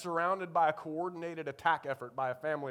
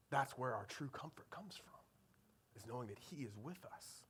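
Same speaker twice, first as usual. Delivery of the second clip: low, soft, earnest sermon voice; hushed preaching; 4 semitones lower, 5 dB quieter than usual. Real, not acted. Preacher tells congregation where comfort comes from, hushed and low. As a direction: bring the sermon down to a quiet reflection.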